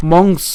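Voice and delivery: মংস ending on a bare s; stop at the s. Shown as a demonstration. Teacher models where to break, মংস cut after s. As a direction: say মংস as "mongs", no vowel after s. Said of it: "আমরা এখানে দন্তাস পর্যন্ত উচ্চারণ করি".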